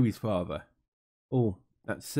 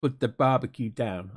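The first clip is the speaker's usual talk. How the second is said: half-hearted attempt at an Australian accent; lightly faked Australian voice, not quite landing it; bad Australian accent. Mother breaking news to her son Brett, poor Australian accent. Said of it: "I can't do an Australian accent".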